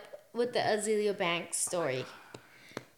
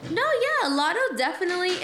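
emphatic; 8 semitones higher, 4 dB louder than usual. Real, not acted. Insisting on her opinion.

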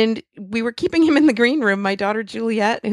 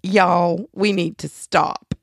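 light, slow Southern drawl; imitating a Southern friend's slow drawl; drawn-out Southern accent, gently mimicked; much slower than usual. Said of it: "her southern drawl was like".

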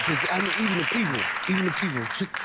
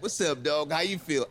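cool greeting; 2 semitones lower than usual. Retold or imitated. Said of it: "then you meet one".

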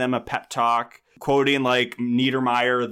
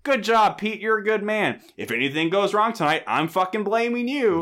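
Sean's boss voice; 6 semitones higher than usual. Retold or imitated. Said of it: "And he's like".

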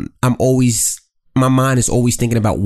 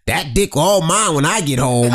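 slow, hammed-up sultry voice; mock sexy drawl; put-on sexy voice; slower than usual. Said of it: "revert to that voice".

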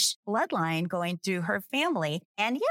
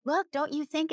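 insistent, much higher-pitched plea; persistent; 10 semitones higher than usual. Retold or imitated. Man pressing her about the resemblance, persistent. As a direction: imitate someone who won't take no. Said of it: "he kept being persistent".

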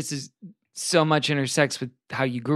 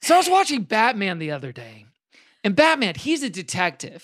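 upbeat youth pastor. Pretend. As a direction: build it up like a Sunday sermon. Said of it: "One of you guys do a youth pastor impression".

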